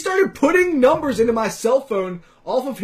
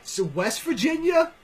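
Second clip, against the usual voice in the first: mocking Bostonian; 9 semitones higher than usual. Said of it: "And they're just like".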